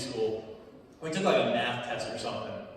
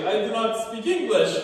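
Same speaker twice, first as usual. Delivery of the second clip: freaked out; 8 semitones higher, 7 dB louder than usual. Retold or imitated. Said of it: "She's like".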